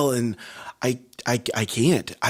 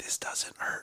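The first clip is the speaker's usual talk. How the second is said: breathy, soft, unvoiced, very quiet whisper. Explaining that talking strains the voice but whispering doesn't hurt, whispered. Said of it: "when I'm whispering like this".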